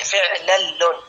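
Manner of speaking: "فعلل" slowly as fi'-lal-lun; careful teaching demo of "فعلل", lingering on the l; doubled second lam. Shown as a demonstration. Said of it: "وتشديد اللام الثانية".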